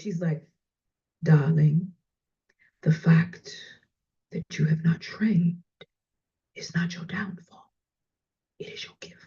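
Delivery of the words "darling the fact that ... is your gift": put-on imitation of a woman's voice. Retell what she told you about your training, in her Maya Angelou voice. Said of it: "she said it in her Maya Angelou voice".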